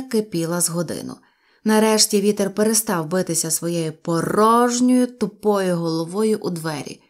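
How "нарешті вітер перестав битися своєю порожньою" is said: usual speaking voice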